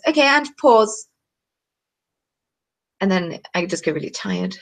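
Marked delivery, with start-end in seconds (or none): 0.1-1.1 brain voice. Retold or imitated. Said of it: "my brain just kinda goes".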